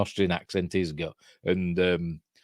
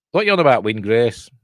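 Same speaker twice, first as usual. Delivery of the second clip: baffled; 2 semitones higher, 6 dB louder than usual. Real, not acted. Baffled reply to chat.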